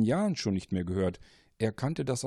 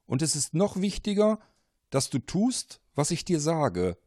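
higher, louder urgent caller; mysterious voice, pressing hard; insistent caller; 6 semitones higher, 4 dB louder than usual. Acted. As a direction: lean in, make him listen. Caller insists Paul listen.

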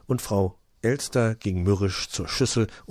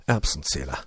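offended thought; 5 semitones lower than usual. Acted. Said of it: "dachte Frau Elster beleidigt".

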